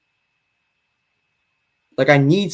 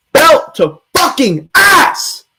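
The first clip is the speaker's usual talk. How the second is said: drawn-out high taunt; 10 semitones higher, 4 dB louder, much slower than usual. Real, not acted. Boasting about beating debater.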